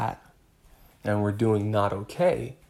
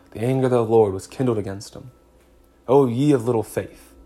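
stern rebuke; 4 dB louder than usual. Acted. Voicing an angry God.

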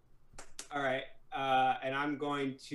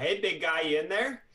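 put-on voice; 3 semitones higher, 5 dB louder than usual. Calling through the door to the big guy, in a put-on voice. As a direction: call it out in a put-on voice, tune rising at the end. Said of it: "I kinda put on a voice".

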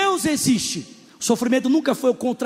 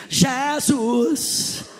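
mock worship leader. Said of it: "Ela fica assim".

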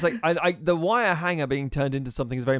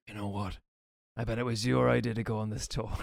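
conservative dad; 6 semitones lower, 7 dB quieter than usual. Acted. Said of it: "conservative dad who's like".

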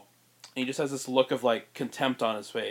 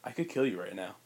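low threat; 5 semitones lower, 8 dB quieter than usual. Retold or imitated. Threatening Bull with knife.

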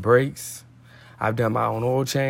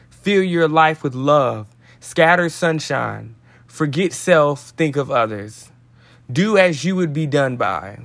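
devotional read-aloud. Acted. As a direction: read it out line by line, letting each land.

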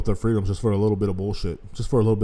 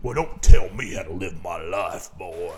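much lower, slow drawl of a mocked redneck; 6 semitones lower, 6 dB louder, slower than usual. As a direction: drop it low like a stubborn old hillbilly. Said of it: "people ... got oppression ... mixed up".

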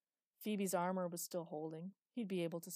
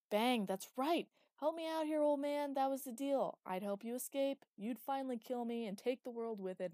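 high, loud, eager pressing; excited demand; 7 semitones higher, 7 dB louder than usual. A narrator's reading. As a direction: egg the old man on loudly. Villain pressing old man.

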